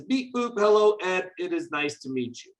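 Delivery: robotic, high on the opening bleeps; computer voice. Pretend. Teacher reading the program's greeting to Ed, computer voice. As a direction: start high like a bleeping computer, then drop. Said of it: "And then it says".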